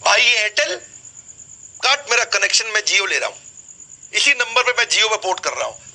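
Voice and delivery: mock insistent caller; demanding customer. Acts customer phoning to cancel connection.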